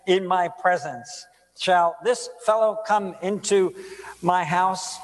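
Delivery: measured, formal Bible reading; solemn public reading of scripture. Acted. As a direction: read the passage with weight. Reads the scripture passage aloud.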